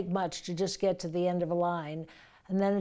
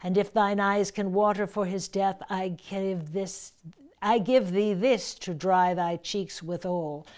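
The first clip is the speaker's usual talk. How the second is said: declaimed verse. Shown as a demonstration. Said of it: "You can take a breath".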